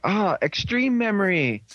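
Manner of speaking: mock awed recognition. Viewer seeing Extreme Memory on his back, mock awe. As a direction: exclaim it in playful relief.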